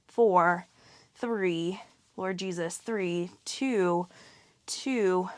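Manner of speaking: counting out while doing crunches; strained counting mid-exercise; straining through ab work. Real, not acted. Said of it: "Oh, my abs are burning".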